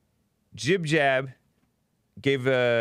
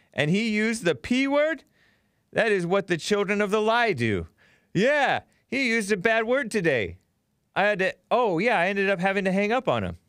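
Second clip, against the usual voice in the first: indignant; 6 semitones higher than usual. Real, not acted. Indignant about caller's bad word.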